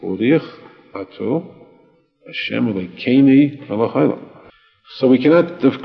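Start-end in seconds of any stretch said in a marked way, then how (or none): 0.0-4.3 a blessing said in the Galician Hebrew accent, u said as i and e. Shown as a demonstration. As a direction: recite it the Galicianer way, lightly voiced. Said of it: "spoke with that accent".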